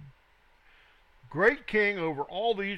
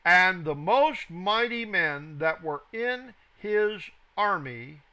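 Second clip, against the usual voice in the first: scripture reading. Acted. Teacher reading the king's furnace command to students, deliberate scripture reading. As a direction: read it out deliberately, stressing phrase by phrase.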